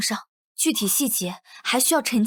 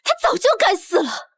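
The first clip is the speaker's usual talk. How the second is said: crying; 6 semitones higher than usual. Acted. Cries out in anguish.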